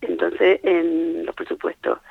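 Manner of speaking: strained hoarse voice giving out. Real, not acted. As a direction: voice almost gone, hoarse. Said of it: "perdona, pero es que estoy afónica".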